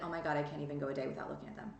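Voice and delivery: fast, low, hurried self-talk; quick lightly voiced dismayed stalker; mock panicked confession. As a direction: rattle it off like an anxious stalker. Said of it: "You're gonna be like".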